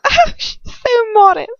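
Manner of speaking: high, slow, sneering coo; mocking coo. A narrator's reading. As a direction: coo it in mock pity. Bellatrix mocking after squeal.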